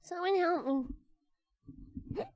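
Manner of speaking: stretched out wail with a rising end; milk every word, mock despair; very slow dramatic plea. Streamer hamming up a hiccup plea, drawn out very slowly. Pleading, dragged out, plea for help.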